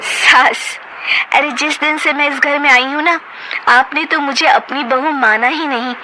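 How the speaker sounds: high, accusing, bitter retort; daughter-in-law confronting mother-in-law, angry; angry confrontation. Acted. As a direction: throw it back at her mother-in-law.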